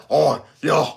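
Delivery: hammed-up mock Australian; broad, comic Australian impersonation; deep Australian accent. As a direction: imitate a thick Australian accent. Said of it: "had a deep, deep Austra".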